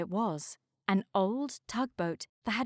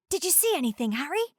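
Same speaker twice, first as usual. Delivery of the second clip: icebreaker character voice; 6 semitones higher, faster than usual. A narrator's reading. Snow icebreaker voice.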